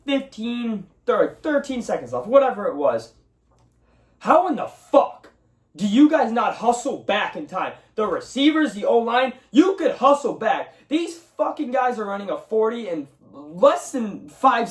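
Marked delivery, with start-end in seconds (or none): 4.2-10.7 high, incredulous angry outburst; fed-up sports fan yelling at his team; exasperated rant. Real, not acted. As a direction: demand to know how they could be so lazy. Ranting at lazy receivers.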